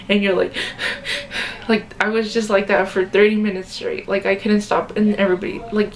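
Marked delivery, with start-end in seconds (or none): 0.6-1.6 shaky crying sigh. Retold or imitated. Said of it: "You know when you, like, cry".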